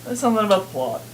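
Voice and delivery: whisper yelling. Real, not acted. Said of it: "Whisper yell".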